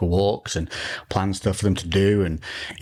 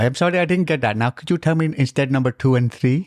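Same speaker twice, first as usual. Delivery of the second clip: higher apologetic call centre agent; polite phone agent, Indian accent; 4 semitones higher, 3 dB louder than usual. Acted. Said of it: "whole podcast in Indian accent".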